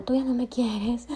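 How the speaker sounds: mock whine. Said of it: "hacerle el show de".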